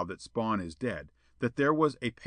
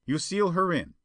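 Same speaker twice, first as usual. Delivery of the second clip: higher-pitched character voice; prompting schemer; 7 semitones higher, 3 dB louder than usual. A narrator's reading. Perona tells Spawn to lock Jetta in, prompting. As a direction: prompt the accomplice in high voice.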